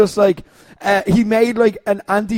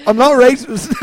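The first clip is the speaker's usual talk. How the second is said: 1 mock Katie Harvey; 5 semitones higher, 4 dB louder than usual. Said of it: "I'm doing a Katie Harvey on it".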